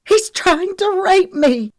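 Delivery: high, loud, drawn-out cry for help; tearful shout. A narrator's reading. Lexi tells the girls, shouting desperately. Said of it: "Lexi shouted, tears springing to her eyes".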